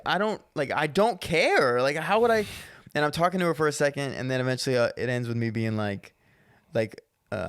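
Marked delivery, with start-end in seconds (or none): 0.1-2.4 raised, slow exasperated voice; annoyed. Retold or imitated. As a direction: dismiss her excuse. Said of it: "And I'm like".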